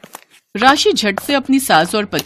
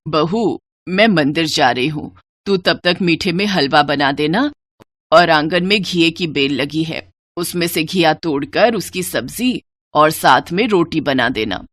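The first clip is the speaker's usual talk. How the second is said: lightly voiced lower mother-in-law; kindly elder instructing the new bride; 3 semitones lower than usual. (हल्की आवाज़ में समझाती सास)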